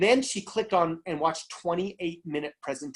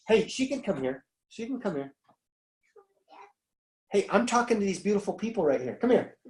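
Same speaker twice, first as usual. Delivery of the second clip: higher-pitched, gentle call to a little one; 4 semitones higher than usual. Real, not acted. Talking to a child who interrupts.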